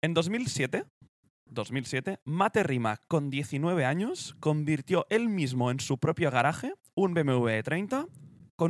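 presenter reading a timeline, rising at phrase ends; deliberate documentary-style read; scripted read-aloud. Acted. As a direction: read out the history in measured phrases. Reads out the company history.

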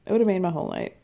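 said through a giggle; chuckling on the repeat; laughing. Real, not acted. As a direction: laugh the words out in delight.

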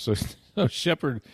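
usual speaking voice

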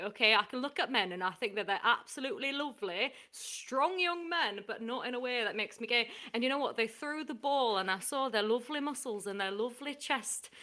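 put-on light northern accent, Hull boomer; lightly put-on northern English accent. Ian from Hull reports the match in a light northern accent. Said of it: "my northern accent".

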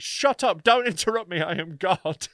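high mock shout, easing off by the end; retold shouting. Comic imitating the act who hated him, mock shouting. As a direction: imitate someone shouting down an interruption. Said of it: "she just kept shouting".

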